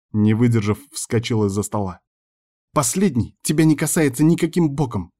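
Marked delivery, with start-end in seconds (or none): 2.7-5.1 higher, flat final refusal; firm cut-off. A narrator's reading. Girl cutting him off about the unborn child, firmly. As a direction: shut the subject down hard. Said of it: "твёрдо отрезала она".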